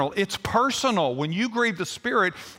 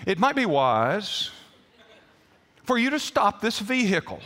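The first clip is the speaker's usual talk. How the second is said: measured, unhurried mock-gentle advice; leisurely, over-courteous hint; polite suggestion. Shown as a demonstration. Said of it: "I didn't make a suggestion in that moment".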